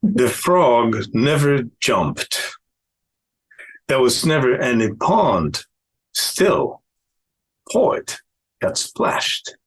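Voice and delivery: slow haiku reading with long pauses; haiku recitation. Acted. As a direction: let each short phrase hang in silence. Recites own haiku aloud.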